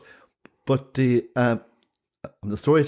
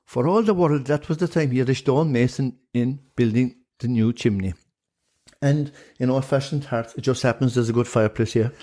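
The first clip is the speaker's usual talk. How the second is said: lilting Irish storyteller. Pretend. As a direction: tell it like an old Shanachie. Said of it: "give us a good old yarn that a Shanachie would".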